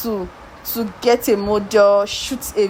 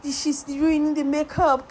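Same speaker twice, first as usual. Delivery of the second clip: mock panic; 5 semitones higher than usual. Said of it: "you'll be like".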